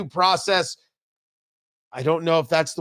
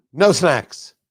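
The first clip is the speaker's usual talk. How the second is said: "No snacks." said louder and flat, stress on "No"; resigned statement; 3 semitones lower, 3 dB louder than usual. Pretend. Host accepting there are no snacks, firm and resigned.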